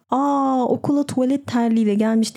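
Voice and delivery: high, sneering schoolyard taunt; mocking bully. Bully mocking the boy in slippers, a high jeering taunt. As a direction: imitate a bully jeering at a classmate. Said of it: "diye alay etmişti".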